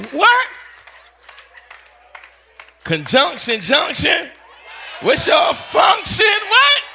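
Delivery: excited cheer. Retold or imitated. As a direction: yell it like a hyped-up kid hearing the theme song. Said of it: "He was like".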